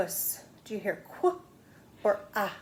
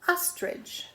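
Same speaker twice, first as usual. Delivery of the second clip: whisper; 10 semitones higher than usual. Acted. Introducing the next picture.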